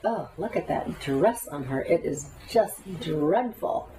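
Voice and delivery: acted catty remark, drawn out at the end; cutting. Gossiping about a woman's dress, mock cutting disapproval. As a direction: play at slicing someone with disdain. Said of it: "you're slicing people with your words".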